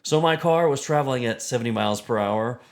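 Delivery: lightly voiced science lecturer; measured, emphatic explaining to a layman; Neil deGrasse Tyson. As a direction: patiently break it down like a popular scientist. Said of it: "my impression of Neil deGrasse Tyson".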